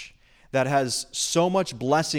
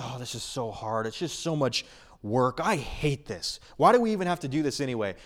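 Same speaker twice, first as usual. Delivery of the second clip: grudging whine; 3 dB quieter than usual. Acted. Mock grudging servant complaint.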